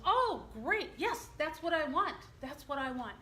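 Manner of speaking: put-on high, loud eager yes from an old man; delighted old dad. Dad gladly accepts the clerk's pizza offer, eager and high.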